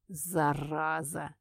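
slow, soft admiring exhale; admiring breath. Acted. Red breathes it out admiringly at Kira. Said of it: "восхищённо выдохнул мужчина".

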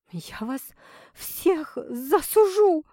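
high, slow venomous hiss; hissing like a viper. A narrator's reading. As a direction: hiss it like a snake. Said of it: "прошипела пациентка гадюкой".

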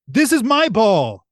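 slow, high mock bellow; imitated action-hero shout; Arnold Schwarzenegger yell. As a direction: yell it down from upstairs, hammed up. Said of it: "he yells to her".

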